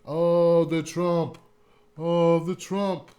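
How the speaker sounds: slow, droning zombie chant; mock a mindless zombie fan; zombie followers. Mocking Trump fans as zombies, slow zombie drone. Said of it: "blind like zombies".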